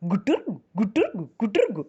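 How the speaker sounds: cooing gutur; pigeon coo. Pretend. Storyteller coos like a baby pigeon. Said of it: "Their voices also sounded different".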